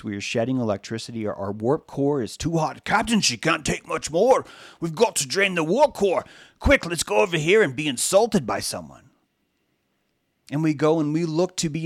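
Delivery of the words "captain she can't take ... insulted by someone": higher, louder urgent engineer voice, hammed up; mock sci-fi crisis call; panicked ship engineer. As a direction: play the frantic engineer yelling to the captain. Starship engineer panicking to captain.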